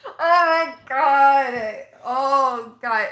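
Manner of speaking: loud drawn-out oh my god; real shocked outcry. Real, not acted. Reacting to a viewer's spoiler comment, loud and shocked. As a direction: cry out, floored by the comment. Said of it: "you're gonna wreck me with those comments".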